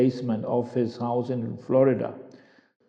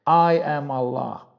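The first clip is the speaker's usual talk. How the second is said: voice of Allah. Acted. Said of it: "Allah in pure, clear Arabic".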